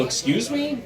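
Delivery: high-pitched incredulous question; acted-out affronted disbelief, voice lifted; taken aback. Man questions his date's accusation, taken aback.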